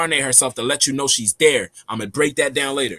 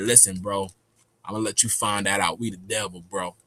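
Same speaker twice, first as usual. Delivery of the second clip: low, soft confiding tone; quiet, grave; 8 semitones lower, 7 dB quieter than usual. Retold or imitated. Homie telling him he will find out, low and quiet. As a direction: lower the voice and confide.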